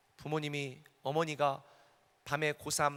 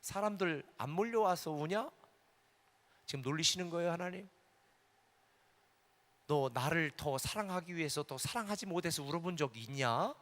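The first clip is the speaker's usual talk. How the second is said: voice of the Lord. Retold or imitated. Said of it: "주님이 말하는 거예요".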